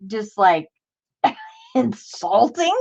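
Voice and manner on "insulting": laughing through the word. Real, not acted. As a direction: giggle it out.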